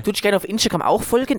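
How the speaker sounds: high, put-on Tyrolean; Tyrolean accent. Host asking listeners to follow on Instagram, Tyrolean accent. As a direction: plug it in Tyrolean dialect. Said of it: "mach mal das Outro auf Tirolerisch".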